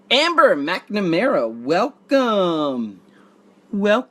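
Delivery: drawn-out, lazy welcome; Pauly Shore impression. Host greeting a viewer as Pauly Shore, drawled. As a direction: stretch the greeting out like a stoner comic. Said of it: "That was my Pauly Shore impression".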